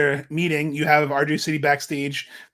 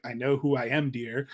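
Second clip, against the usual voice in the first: haughty put-down; 4 semitones lower, 5 dB quieter than usual. Retold or imitated. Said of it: "And she's like".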